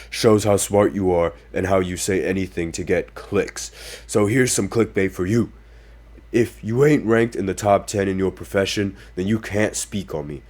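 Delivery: lightly doing Shaq reading his own comeback. Retold or imitated. Podcaster reading Shaq's Instagram reply, lightly imitating Shaq. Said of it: "I'm gonna try to say it in the voice".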